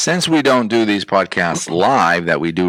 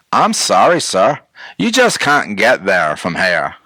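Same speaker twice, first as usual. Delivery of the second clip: put-on Maine Down Easter accent; slower than usual. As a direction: slowly imitate a Maine local's Down East accent. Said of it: "they speak like that in Maine".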